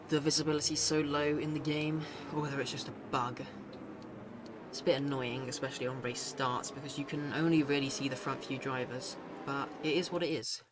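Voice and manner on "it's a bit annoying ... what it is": winded after running, still out of breath. Real, not acted. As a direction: talk while catching your breath. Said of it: "Sorry, I'm out of breath".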